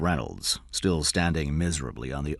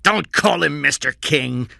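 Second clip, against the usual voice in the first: shouted; 10 semitones higher, 7 dB louder than usual. A narrator's reading. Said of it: "Cy shouted".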